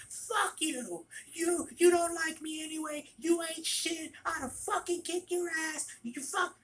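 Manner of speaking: high-pitched imitation of a ranting customer; mock angry yelling. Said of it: "started yelling at me".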